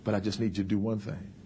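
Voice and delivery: low, soft and careful; tactful request. Acted. Wife carefully asking her husband, low and tactful. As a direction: ease gently into asking a favor. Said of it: "You gotta be very tactful".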